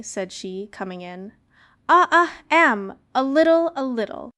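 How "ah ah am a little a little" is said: high, loud, halting fake-cough voice; hammed-up coughing wolf playing granny; wolf faking a cough. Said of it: "pretending to cough".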